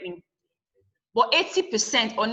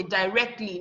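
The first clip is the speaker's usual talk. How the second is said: directly with RECT still stressed; 2 semitones lower than usual. Shown as a demonstration. Teacher adds li to direct, RECT still stressed in directly. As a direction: keep the force on the middle syllable of directly. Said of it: "The rec is still the one".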